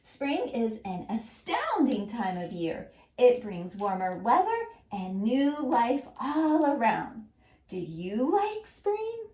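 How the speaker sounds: put-on slow, even read-aloud for children; choral reading. Shown as a demonstration. Teacher leading children in reading the message aloud together. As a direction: read it slowly, word by word, so the class can follow. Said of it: "let's read it again".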